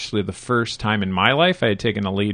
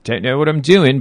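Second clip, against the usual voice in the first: put-on Cockney accent; 4 semitones higher than usual. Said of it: "do the tryout again in Cockney accent and say".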